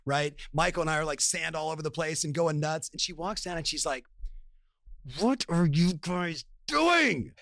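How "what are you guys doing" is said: wife's stern question. Retold or imitated. Wife catches them on beach.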